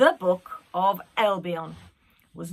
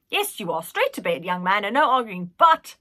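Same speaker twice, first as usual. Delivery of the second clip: put-on old nanny voice; 5 dB louder than usual. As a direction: cluck over him like a nanny. Nanny insisting on bed.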